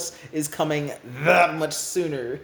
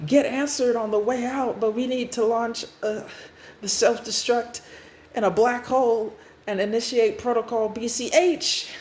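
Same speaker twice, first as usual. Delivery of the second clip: raised, pressured command; urgent orders; 5 semitones higher than usual. Acted. New Restart orders self-destruct on the way out, urgent. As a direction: issue emergency orders.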